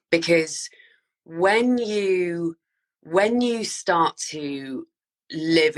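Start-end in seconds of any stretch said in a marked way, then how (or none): 0.1-0.7 whisper. Real, not acted. Dramatic hush on key point. 1.2-2.6 whispered when you, as if sharing a secret. Real, not acted. Whispered take before voiced repeat.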